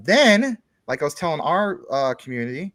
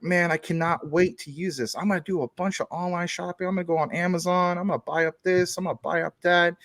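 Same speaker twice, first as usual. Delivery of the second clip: a light, higher, eager lilt, imitating a buyer who can't wait; mock excitement, pitched up; excited new owner; 5 semitones higher than usual. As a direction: play the thrilled shopper about to splurge. Imagined buyer of a new computer.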